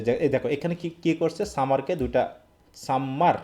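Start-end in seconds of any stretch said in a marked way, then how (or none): 2.8-3.4 সাম্মার with a long held m; doubled m demo. Shown as a demonstration. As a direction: hold the m in সাম্মার. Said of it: "এভাবে দেওয়া হচ্ছে".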